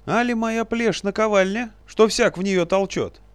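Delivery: very high, loud squeaky fury, slowed; a tiny old man boiling over; ranting little sage. Acted. Enraged little wizard rants.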